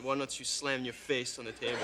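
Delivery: "Why don't you slam your face" run together in a French accent. Shown as a demonstration. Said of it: "with my accent, it sounded".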